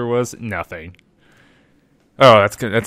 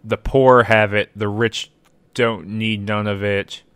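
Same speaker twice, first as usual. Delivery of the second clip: riddle recital; 4 dB louder, slower than usual. Retold or imitated. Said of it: "the classic".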